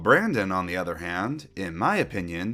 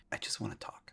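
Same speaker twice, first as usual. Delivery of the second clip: near-whisper, much softer; mock-restrained threat; 2 semitones lower, 14 dB quieter than usual. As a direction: drop to a hushed, barely voiced aside. Mock-menacing aside after voice complaint.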